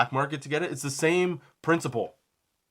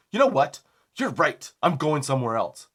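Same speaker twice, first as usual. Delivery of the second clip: retold huff; 4 dB louder than usual. Customer quitting the sale to shop elsewhere, huffy. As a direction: imitate a customer storming off. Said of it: "he leaves in a huff".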